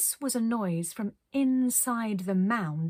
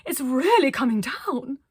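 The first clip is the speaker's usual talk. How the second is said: higher and louder over the storm; near shouting; 6 semitones higher, 8 dB louder than usual. Acted. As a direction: call out over the snow. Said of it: "She was more or less shouting".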